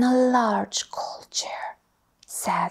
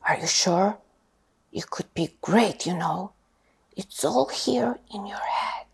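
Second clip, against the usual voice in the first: sorting hat voice; 3 dB louder than usual. Acted. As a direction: ponder aloud like a wise old hat. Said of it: "said a small voice".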